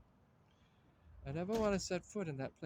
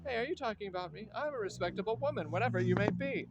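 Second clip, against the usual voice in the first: indignant retort; 4 semitones higher, 5 dB louder than usual. Acted. Women quarrel over respectability.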